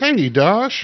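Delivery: high-pitched. A game narrator voices Gore greeting a player as they come out: Gore's high voice. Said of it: "he'll greet you in his high voice of".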